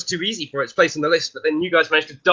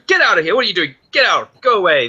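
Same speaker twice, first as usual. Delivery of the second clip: mock angry shout; 3 semitones higher, 4 dB louder than usual. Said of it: "And the Stollen goes".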